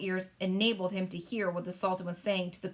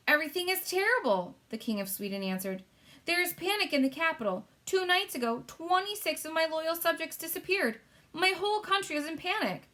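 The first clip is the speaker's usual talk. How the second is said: panicked King of Sweden; 9 semitones higher than usual. Acted. King of Sweden reporting disappearances, high panicked voice. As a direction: cry it out in alarm.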